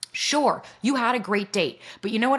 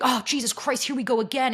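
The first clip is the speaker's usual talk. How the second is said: higher-pitched, lightly exasperated groaning complaint; mock exasperation; 4 semitones higher than usual. Guest acts her old reaction to being triggered, exasperated. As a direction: act mildly fed up. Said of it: "when I'd get dysregulated, instead of going".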